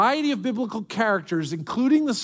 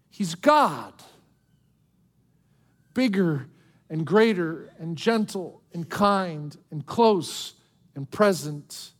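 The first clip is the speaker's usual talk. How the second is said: tender reassurance. Real, not acted. Tender close of the sermon point.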